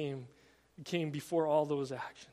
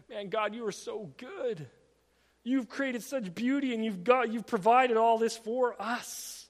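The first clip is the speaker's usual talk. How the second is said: rising into loud, higher-pitched wonder; exclaimed praise; 4 semitones higher, 5 dB louder than usual. Acted. Believer praising God for the created beauty, exclaimed praise. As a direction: marvel out loud to God, building in force.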